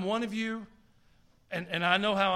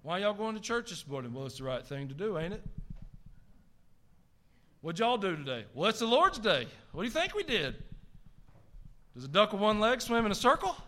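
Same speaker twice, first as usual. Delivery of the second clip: folksy put-on Southern accent; Southern accent played up for laughs; exaggerated Southern accent. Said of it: "This is my Southern accent".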